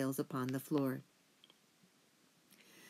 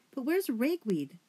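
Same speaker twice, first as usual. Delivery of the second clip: high, slow, pointed demand; a fussy elder mouse demanding answers; 7 semitones higher than usual. A narrator's reading. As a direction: insist on an answer, drawing it out. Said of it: "Lungwort demanded".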